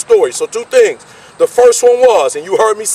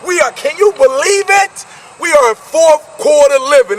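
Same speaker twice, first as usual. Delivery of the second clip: real excitement, pitched up and shouted; pumped up; 5 semitones higher than usual. Real, not acted. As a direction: hype the crowd about fourth quarter. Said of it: "So I'm pumped up".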